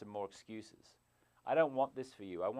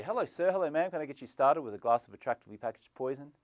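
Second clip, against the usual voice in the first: bright, raised, sugary waiter greeting; mock cheerful waiter offering poison; smiling assassin. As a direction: sell poison with a fake friendly smile. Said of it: "The smiling assassin here".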